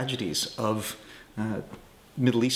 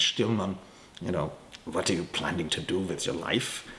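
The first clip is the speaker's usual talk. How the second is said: put-on lower-pitched, light German accent; 3 semitones lower than usual. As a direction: imitate an old teacher's German accent lightly. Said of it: "in his German accent".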